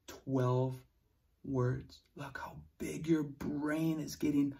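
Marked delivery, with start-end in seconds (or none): 2.1-4.6 whispering. Real, not acted. Praising kids in hushed tone.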